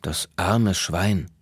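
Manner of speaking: slow, sighing pity; drawn-out and sorry for him; a slow, sympathetic sigh read to children. Acted. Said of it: "seufzte Tayo mitleidig".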